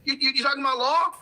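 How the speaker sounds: mock politician. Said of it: "The politicians go".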